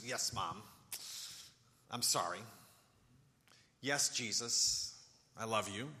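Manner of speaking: a hint of a grudging teen apology; sulky teenager. Preacher imitating a teen forced to apologise, mildly sulky. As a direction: mumble it like a forced sorry. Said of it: "like one of those teenagers".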